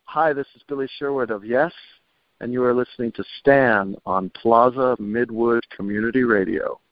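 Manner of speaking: radio guest recording a station ID; station ID read. Acted. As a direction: announce the station to listeners. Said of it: "would you give me a station I D".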